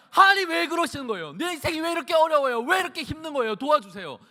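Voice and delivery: acted desperate prayer, very high and loud; crying out to God. Hannah begging God for help, acted crying out. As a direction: plead upward at the top of the voice. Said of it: "막 하나님께 부르짖고".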